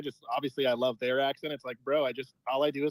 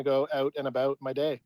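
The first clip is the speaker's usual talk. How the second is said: Canadian vowels on out and about; Canadian accent. Shown as a demonstration. Caller asked to say "about", Canadian accent. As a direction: show off an everyday Canadian "out and about". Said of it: "say the word about, please".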